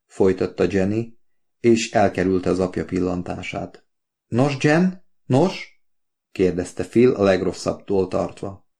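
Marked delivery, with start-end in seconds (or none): 4.3-5.8 high, anxious prodding. A narrator's reading. Father presses his daughter, fearing the worst, anxious high prodding. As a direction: press her nervously for an answer.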